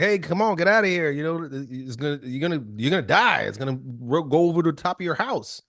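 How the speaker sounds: police in the boat pleading with the man. Retold or imitated. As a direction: beg him to get in the boat. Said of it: "the police are like".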